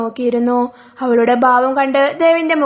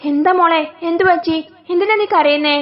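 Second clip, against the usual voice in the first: worried mother voice; 4 semitones higher than usual. Acted. Mother-in-law worried on phone.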